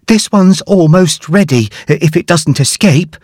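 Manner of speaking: a hint of a busy cook; mildly voiced friendly helper; Flapjack's voice. A narrator's reading. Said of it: "said Flapjack".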